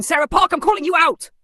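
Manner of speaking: high, loud cowboy drawl call-out; hammed-up cowboy showdown. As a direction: challenge her like a Western gunslinger. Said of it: "In my cowboy drawl".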